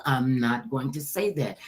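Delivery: low, carefully worded retold refusal; firm refusal. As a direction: bring it down and spell out the refusal. Restates refusal in full words.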